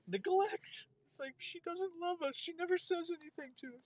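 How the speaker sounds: high squeaky voice for sulking plants; houseplant voice. Pretend. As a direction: speak as a neglected plant. Wife voicing neglected houseplants.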